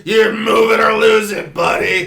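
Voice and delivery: loud, high drill-style shout; old military man. Retold or imitated. Old military guy ordering someone aside, barking. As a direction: bark it like an old serviceman. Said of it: "like an old military".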